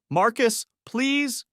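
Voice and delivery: lightly voiced, high pleading wife; frightened plea. A hint of wife's voice begging her husband, frightened. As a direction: beg him to stop, scared.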